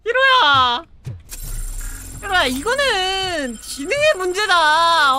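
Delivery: yelling. Real, not acted. Yells at Hiro.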